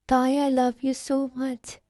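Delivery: slow, drawn-out romantic declaration; tender love confession. Acted. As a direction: stretch the words out lovingly. Acted husband's romantic confession to Tai. (धीमे, प्यार भरे अंदाज़ में)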